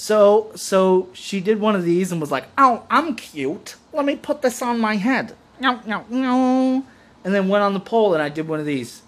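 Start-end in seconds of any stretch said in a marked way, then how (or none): 2.6-5.3 high, slow, girly mock voice; imitating dancer. Mocking the dancer who took his hat. 5.6-6.8 mock stern no. His stern refusal retold.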